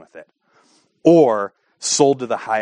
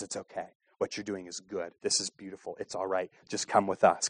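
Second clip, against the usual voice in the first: soft hushed reassurance; whispering; 3 semitones lower, 13 dB quieter than usual. Retold or imitated. Escort whispering to a woman entering the clinic. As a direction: whisper it close into her ear. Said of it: "the escorts are whispering in their ears".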